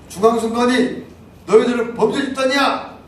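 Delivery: loud, high accusing shout; retold shout. Shouting at the election commission, loud and high. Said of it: "이렇게 외쳤어요".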